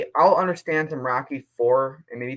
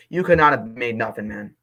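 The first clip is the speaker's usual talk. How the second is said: getting mad; 5 dB louder than usual. Real, not acted. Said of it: "Sorry, I got a little mad there".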